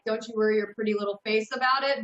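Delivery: quick, light New York dad impression; New York accent. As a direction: rattle it off in a hint of New York. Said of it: "that's kind of the impression that I get".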